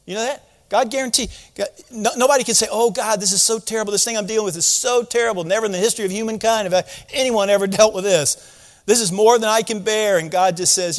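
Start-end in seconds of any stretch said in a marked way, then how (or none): 2.7-10.2 quick, lightly hammed-up lament; mock complaint. Imagined believer complaining to God about troubles, mock lament. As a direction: rattle off an overwrought grievance, half-heartedly.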